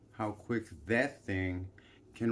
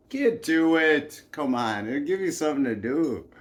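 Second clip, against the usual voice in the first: loud, bossy, pushing them on; barked chieftain commands; bossy orders; 5 semitones higher, 9 dB louder than usual. Retold or imitated. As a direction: order the lads about. Dandiest chieftain gives orders.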